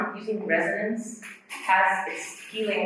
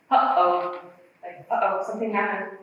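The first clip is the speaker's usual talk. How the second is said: uh-oh onset demo; 5 dB louder than usual. Shown as a demonstration. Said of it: "connecting again to this reflex".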